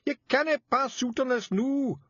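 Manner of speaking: high, loud Scots plea; urgent high Feegle cry; loud pleading. A narrator's reading. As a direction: beg her not to faint, loudly. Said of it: "Rob screamed".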